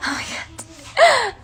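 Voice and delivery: high, slow laughing Oh my God. Real, not acted. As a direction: laugh through it in disbelief. Laughing at a funny discovery.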